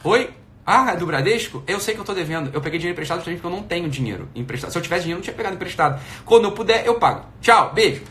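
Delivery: breezy and quick, brushing off the bank; pretend phone call. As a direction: rattle it off casually to the caller. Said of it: "tocou de novo". (atendendo o Bradesco, despreocupado e rápido)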